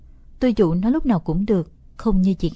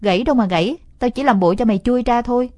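gloating; 2 semitones higher, 5 dB louder, faster than usual. Acted. Boy gloats at sister.

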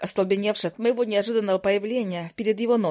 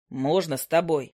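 lightly voiced hunter; 4 semitones lower than usual.

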